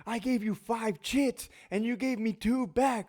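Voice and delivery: high, slow exaggerated whine; central control voice. Control officer complaining about chits, high slow whine. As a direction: drag out the angry control officer. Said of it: "the voice that they use in the central control window".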